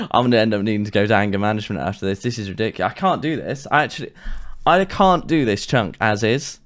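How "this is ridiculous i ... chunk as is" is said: usual speaking voice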